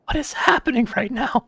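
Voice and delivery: high-pitched, incredulous outburst; bewildered disbelief. Real, not acted. Streamer reacting to a heated game cutscene, bewildered. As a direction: pitch shoots right up in baffled disbelief.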